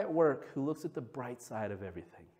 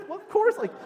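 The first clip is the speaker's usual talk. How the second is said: high, laughing incredulous reply; retelling a laughing comeback; laughing retort. Retold or imitated. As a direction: scoff with a laugh. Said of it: "I was like".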